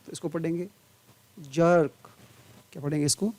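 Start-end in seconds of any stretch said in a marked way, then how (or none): 1.4-2.1 जर्क with the अ drawn out; long schwa. Shown as a demonstration. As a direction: hold the vowel in जर्क before the final क. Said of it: "लंबा". (जर्क में लंबा अ)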